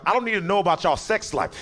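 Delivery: high, rising exasperated yell; annoyed cop losing patience; fed-up cop. Retold or imitated.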